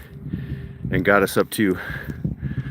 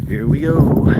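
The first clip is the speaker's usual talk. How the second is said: urging the dog; 6 semitones higher, 4 dB louder, slower than usual. Real, not acted.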